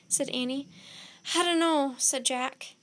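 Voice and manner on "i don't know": loud, higher flustered answer; frantic raised voice; flustered panic. A narrator's reading. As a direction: blurt it out under pressure. Jack panics at the sundial.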